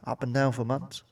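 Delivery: innuendo-laden echo of the missus; mock suggestive. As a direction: lean on down with a sly rise. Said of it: "I wonder why you look so happy, love".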